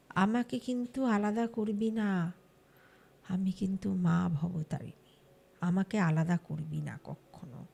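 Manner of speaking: low, slow, soft otherworldly voice; possessed goddess voice. Retold or imitated. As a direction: speak as the goddess through the sleeping girl. Possessed girl speaks as goddess. (নিচু, ধীর, ভর-হওয়া দেবীর কণ্ঠ)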